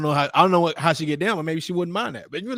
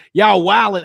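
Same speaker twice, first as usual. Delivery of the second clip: put-on Brooklyn accent; 3 semitones higher, 5 dB louder than usual. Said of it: "in my Brooklyn voice".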